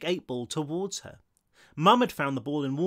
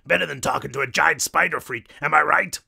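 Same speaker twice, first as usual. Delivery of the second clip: loud Brooklyn wisecrack; thick Brooklyn accent; 6 dB louder than usual. A narrator's reading. Short ghost jeering at the spider, Brooklyn accent. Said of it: "this one with a thick Brooklyn accent".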